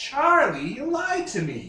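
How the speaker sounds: as parrot-like as possible, high and swooping. Retelling a story, quoting one man accusing another, in a parrot voice. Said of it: "parrot voice possible".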